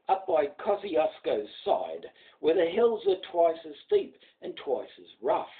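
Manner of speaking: steady rhythmic ballad reading; poem recitation. A narrator's reading. Narrator reciting The Man from Snowy River to an audience, rhythmic ballad voice. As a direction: recite it like an old bush ballad for listeners.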